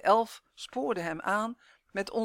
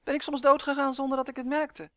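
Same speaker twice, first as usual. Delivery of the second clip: raised, higher-pitched elf protest; indignant shouting; 7 semitones higher, 6 dB louder, faster than usual. A narrator's reading. Elf asking if he has died, shouting indignantly. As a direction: keep yelling, loud and high. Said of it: "schreeuwde Uf".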